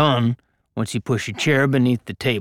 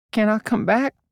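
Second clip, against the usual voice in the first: shy, timid, very high-pitched voice; 10 semitones higher than usual. Narrator reading Bo's question to Guy in a story, timid. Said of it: "Bo asked timidly".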